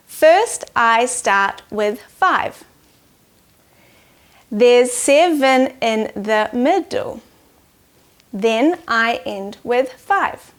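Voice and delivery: slow, measured haiku reading; poem reading. Acted. Teacher reading a haiku to children, slow and measured. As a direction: count each syllable as you read.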